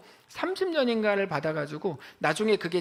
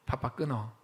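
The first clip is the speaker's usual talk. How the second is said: cold, clipped, lower and softer; curt brush-off; 6 semitones lower, 6 dB quieter than usual. Retold or imitated. Busy mother hanging up on her own family, curt and cold. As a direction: cut the caller off short. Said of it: "남편도 전화할 때마다 듣는 말이".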